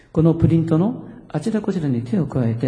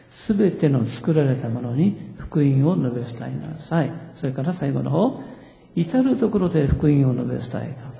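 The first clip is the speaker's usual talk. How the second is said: slow, deliberate congregational reading; drawn-out, evenly measured recitation; scripture reading; slower than usual. Real, not acted. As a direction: lead everyone through the verses phrase by phrase. Rereads underlined scripture with congregation.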